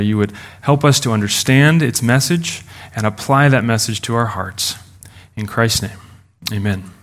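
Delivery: hushed pastor's prayer. Acted. Opening prayer before sermon.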